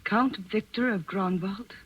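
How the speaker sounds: slow, careful reading of an anonymous note; reading a note aloud. Acted. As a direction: read each phrase out slowly, weighing it. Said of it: "Read it, please".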